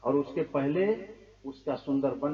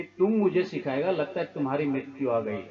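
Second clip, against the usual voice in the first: angry Ravan; 6 dB louder than usual. Acted. Ravan rebukes Hanuman angrily.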